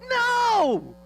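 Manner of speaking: God's booming no. Acted. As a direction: blast the refusal as God would. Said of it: "That's the Matt translation".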